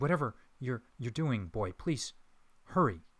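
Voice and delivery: frantic, carrying stage whisper. A man leans into the crypt and urges the boy to hurry: desperate loud whisper. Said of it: "in a loud whisper towards the boy".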